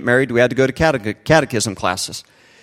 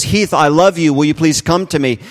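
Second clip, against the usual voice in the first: raised, earnest fatherly appeal; wooing plea; 3 semitones higher, 3 dB louder than usual. Acted. God the good Father calling to Heath, wooing plea. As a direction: plead lovingly, voice lifted. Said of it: "the good Father woos us and he says".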